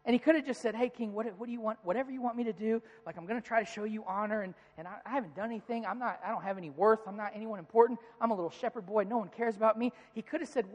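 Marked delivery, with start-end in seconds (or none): 0.8-9.9 softer, meek self-deprecating mumble; timid. Pretend. A scared shepherd boy cowering before the king, soft and meek. The timid David he could have been.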